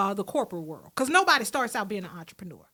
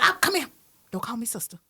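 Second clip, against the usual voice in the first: hushed, softer aside, mostly whispered; whispered warning; 6 semitones lower, 4 dB quieter, faster than usual. Retold or imitated. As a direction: pull her close and warn her quietly. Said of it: "I was like".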